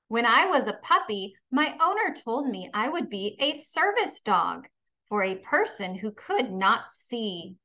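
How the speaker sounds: storybook voice, dog telling his own story; reading to children. Acted. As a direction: read it gently to young kids. Reads picture book aloud.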